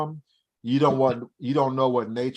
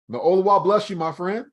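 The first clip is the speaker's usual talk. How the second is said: lifted, louder grateful blessing; excited blessing; 7 semitones higher, 3 dB louder than usual. A narrator's reading. Stranger blessing the old father, excited and lifted.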